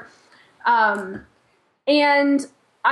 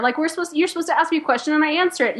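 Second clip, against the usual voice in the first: flustered protest; 5 semitones higher, faster than usual. Retold or imitated. Acts out confused protest on set.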